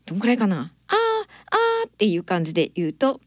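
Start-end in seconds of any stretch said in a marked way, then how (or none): 0.9-1.9 very high thin ah sounds; much higher demo vowel; even higher ah. Shown as a demonstration. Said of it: "さらに高い声で".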